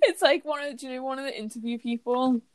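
laughs through the words; giggling while talking; laughing. Real, not acted. Laughing about video.

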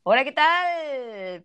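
slow, holding back a laugh; barely keeping it together; stifled giggles. Real, not acted. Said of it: "Empecemos de nuevo".

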